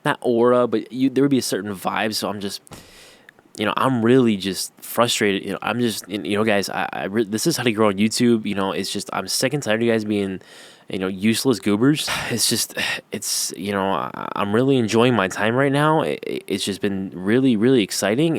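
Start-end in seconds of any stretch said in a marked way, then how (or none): 3.6-12.1 hammed-up frustration. Shown as a demonstration. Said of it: "that was a little too obvious". 13.9-18.4 cheerful enthusiasm. Shown as a demonstration. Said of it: "you want people to think, that you're happy".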